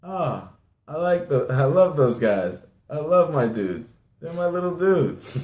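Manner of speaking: high, gushing fond voice; happy Iverson. Retold or imitated. Allen Iverson telling a reporter about his team, high gushing voice. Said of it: "he's just like".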